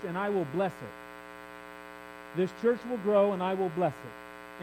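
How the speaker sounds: soft, slow, low voice of God; tender promise. Acted. The Lord promising the prophetic pastor, soft and slow. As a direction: hush it down like a gentle blessing.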